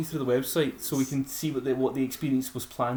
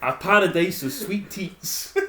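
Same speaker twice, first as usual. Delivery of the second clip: laughing through the words, higher and slower; laughing while reading; 5 semitones higher, 4 dB louder, slower than usual. Real, not acted. Reading the fake poster to friends, laughing. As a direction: read it out barely holding in a laugh.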